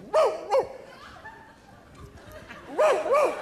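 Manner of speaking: high yipping dog bark; Lassie barking. Retold or imitated. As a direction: bark like an eager collie. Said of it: "Lassie who would go".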